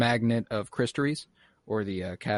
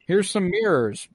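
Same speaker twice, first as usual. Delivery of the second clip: higher, slow, bluffing offer; a hint of a flustered magician's assistant; lightly mocked Wanda; 9 semitones higher, 5 dB louder than usual. Wanda improvising cover.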